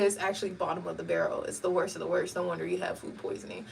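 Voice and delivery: expressionless brother. Retold or imitated. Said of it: "No expression on his voice".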